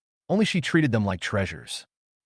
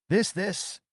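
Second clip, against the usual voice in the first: hesitant; 9 semitones higher than usual. A narrator's reading. Teacher caught without an answer before the principal, hesitant. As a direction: stall with a raised, questioning pitch. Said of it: "Shin Mei hesitated".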